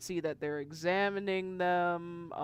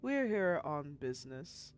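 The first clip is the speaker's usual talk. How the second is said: courteous Jinwei; 3 semitones lower, 5 dB quieter than usual. Acted. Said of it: "to which he says".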